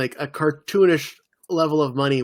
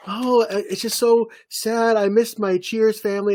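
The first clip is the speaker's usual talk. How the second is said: quoting Kirstie Alley; 7 semitones higher than usual. Retold or imitated. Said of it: "her monologue was like".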